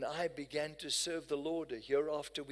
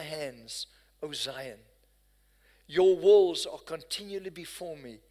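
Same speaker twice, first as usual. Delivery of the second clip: scripture proclaimed; 7 dB louder than usual. Acted. Preacher to the congregation, proclaiming God's promise loudly. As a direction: read out big and louder.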